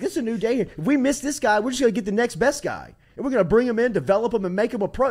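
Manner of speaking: rally the room like a new coach; fired-up coach speech. Retold or imitated. Retelling coach Saban's bold promise, loud and fired up.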